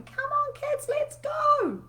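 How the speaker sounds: high, slow, loud drawn-out call; mock yelling at kids. Mum hurrying her kids to school, high loud yell. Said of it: "When I was yelling and going".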